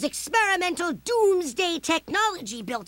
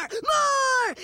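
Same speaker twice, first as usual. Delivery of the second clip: escalating shout; 5 semitones higher than usual. Acted. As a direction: push the second more up. Demands more, escalating.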